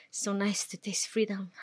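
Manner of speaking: breathless whisper of relief; whispered in awe. Acted. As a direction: barely breathe the words out, as if free at last.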